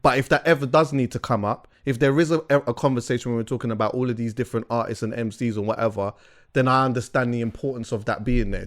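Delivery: slight wet lisp. Real, not acted. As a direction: talk through saliva with a lisp. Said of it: "Why did you get a lisp?".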